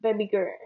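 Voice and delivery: put-on quick "baby girl" with no L; "baby girl" tossed off, L dropped; own slurred pronunciation. Shown as a demonstration. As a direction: shorten "girl" to "gurr". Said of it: "I just gotta say it like Shawty Bay".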